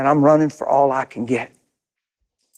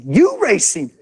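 teasing taunt; 6 semitones higher, slower than usual. Retold or imitated. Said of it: "And they'd say".

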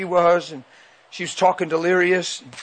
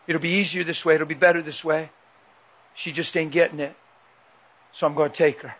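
quiet sinister voice. Retold or imitated. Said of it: "a voice came in the bedroom".

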